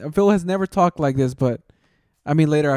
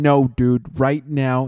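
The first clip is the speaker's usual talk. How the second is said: mock deeper alpha voice; 4 semitones lower, slower than usual. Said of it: "Like, even his voice was deeper".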